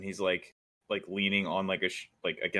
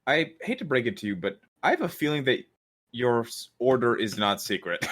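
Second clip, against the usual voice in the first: exasperated; 4 semitones higher than usual. Acted. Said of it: "a really deep breath and he goes".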